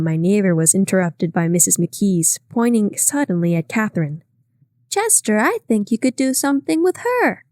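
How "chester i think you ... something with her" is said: sudden high eager outburst; mild sudden exclamation, higher pitched; breaking out. A narrator's reading. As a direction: blurt it out, higher. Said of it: "she broke out".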